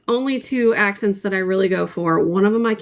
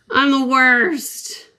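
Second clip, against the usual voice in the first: self-mocking groan; 5 semitones higher, much slower than usual. Real, not acted.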